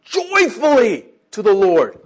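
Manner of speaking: high, loud, slow proclaiming; a joyful loud proclamation; joyful shout. Shown as a demonstration. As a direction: call it out to the whole earth. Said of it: "the instructions here are".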